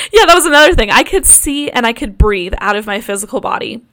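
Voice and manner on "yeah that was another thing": higher, louder, voice still wobbling from laughter; teary chuckling voice; laughing still. Real, not acted. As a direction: talk through the tail of a laugh.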